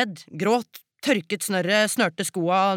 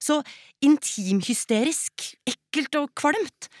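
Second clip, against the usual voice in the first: disgusted; 4 semitones higher than usual. Acted. Daughter revolted by mother's closeness.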